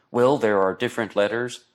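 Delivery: put-on a half-hearted French accent, slight rise at the end; first rough try at a French linguist; light French accent, barely put on; weak French accent. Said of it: "can I do a better French accent than that?".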